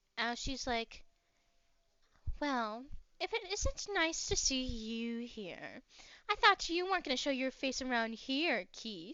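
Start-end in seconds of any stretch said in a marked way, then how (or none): 2.4-9.2 put-on feminine voice. Voicing an overheard woman greeting Keith: feminine voice. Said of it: "you're gonna hear this feminine voice".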